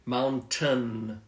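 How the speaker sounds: "Mountain" with a distinct "tun" ending, I silent; careful model of "moun-tun"; clear word ending. Shown as a demonstration. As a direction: separate and draw out the end of "Mountain". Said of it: "the end again?".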